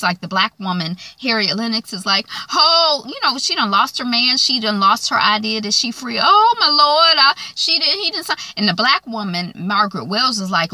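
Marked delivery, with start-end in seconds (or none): 2.5-8.4 high, loud, near-crying lament; wailing in despair over lost freedom; distraught wail. Retold or imitated. Harriet wails to Margaret over the unsigned papers, distraught and high.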